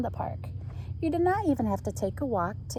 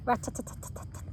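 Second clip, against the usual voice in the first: woodpecker tapping; 3 semitones higher, 5 dB quieter, faster than usual. A narrator's reading. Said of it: "sounds like a little hammer".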